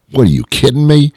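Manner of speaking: high-pitched mock disbelief; incredulous, pitch jumping up. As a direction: scoff at an absurd invitation. Scornful reply to curling invitation.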